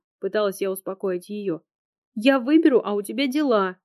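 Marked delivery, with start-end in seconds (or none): 2.1-3.8 higher and louder, near a shout; a near-yell of hurt; nearly shouting at her friend; almost shouting. A narrator's reading. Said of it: "почти кричала она".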